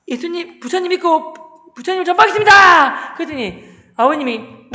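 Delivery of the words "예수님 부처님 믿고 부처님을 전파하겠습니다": high voice swelling to a loud vow; zealous pledge. Retold or imitated. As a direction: declare it like a devout recruit. Acted zealous pledge to his father. (높고 힘찬 목소리로 맹세)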